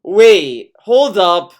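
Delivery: wait, hold up, said loudly; loud interruption. Real, not acted. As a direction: cut in loudly. Interrupting to call out.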